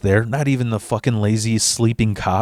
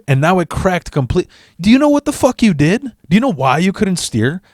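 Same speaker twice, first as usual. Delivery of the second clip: incredulous yell; 8 semitones higher than usual. Retold or imitated. Coworker scolding him about the cracked engine mount, high disbelieving shout. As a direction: yell it at him like he's an idiot.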